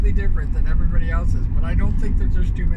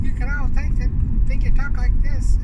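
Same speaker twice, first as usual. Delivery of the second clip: lightly raised head voice; higher imagined voice; 10 semitones higher than usual. Shown as a demonstration. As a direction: voice pushed much higher, imagined self. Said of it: "it's like this".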